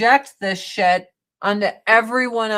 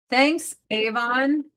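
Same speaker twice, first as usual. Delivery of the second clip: slow, drawn-out sarcastic "Thanks, Avon"; mock gratitude to the mascara brand; 3 semitones higher, slower than usual. Real, not acted. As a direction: stretch "Thanks" out, dripping with sarcasm.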